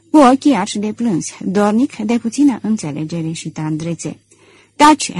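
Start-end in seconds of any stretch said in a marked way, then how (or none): 4.8-5.1 short, raised order to stop; a quick, pitched-up shush; sharp hush. A narrator's reading. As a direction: cut him off sharply. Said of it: "zise el".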